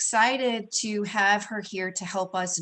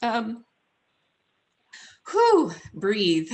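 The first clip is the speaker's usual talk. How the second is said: higher, voice choked with real emotion; holding back tears while thanking viewers; getting emotional; 6 semitones higher than usual. Real, not acted. Host thanks viewers for support, voice tearful and breaking. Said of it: "Sorry, I'm getting emotional".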